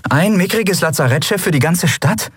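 you can't believe how small the ship is; disbelief. A narrator's reading. Endriel sees the tiny hospital ship, in disbelief. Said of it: "Endriel konnte es nicht glauben".

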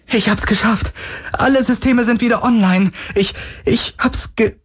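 very high, excited triumph; elated, high-pitched announcement; childlike joy. A narrator's reading. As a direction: gush with childish delight, then break off. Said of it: "mit fast kindlicher Freude".

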